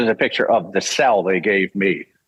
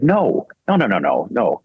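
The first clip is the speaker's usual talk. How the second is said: emphatic denial. Retold or imitated. Retold laughing producers correcting him.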